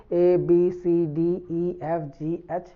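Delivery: school-style recital of A to H by letter name. Shown as a demonstration. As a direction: recite the English letter names in a row. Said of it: "कैसे पढ़ते हैं आप".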